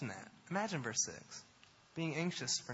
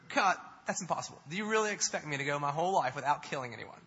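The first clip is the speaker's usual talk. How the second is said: mock protest; 6 dB louder, faster than usual. Acts out absurd protest against a commandment.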